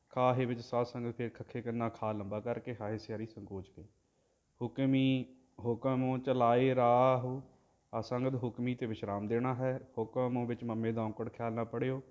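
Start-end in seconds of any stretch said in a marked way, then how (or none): 4.6-7.4 drawn-out devotional chanting, word by word; slow santhiya recitation of scripture; slow Gurbani recitation. Shown as a demonstration. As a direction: chant each syllable slowly and evenly, like a granthi. Teacher chants the Gurbani line.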